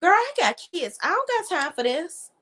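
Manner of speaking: high, fed-up mock rant; imitating Tiny. Tiny brushing off Tamar, high fed-up mimic. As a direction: brush her off, exasperated. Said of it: "And Tiny is like".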